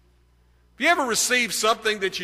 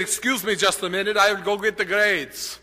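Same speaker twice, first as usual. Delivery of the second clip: put-on German accent. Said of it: "he had a very pronounced German accent".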